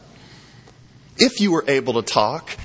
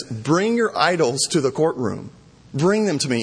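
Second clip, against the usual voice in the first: sarcastic. Acted. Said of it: "it's very sarcastic".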